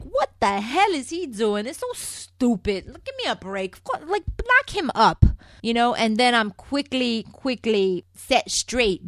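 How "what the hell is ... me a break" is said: mock-exasperated self-quote, pitched a bit up; exasperated disbelief. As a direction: scoff at it like it's idiotic. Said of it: "And I'm all like".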